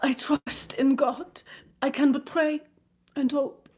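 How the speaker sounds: a countess sighing her hope, slow and hushed; heavy sigh. A narrator's reading. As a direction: sigh out a weary prayer. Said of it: "with a heavy sigh".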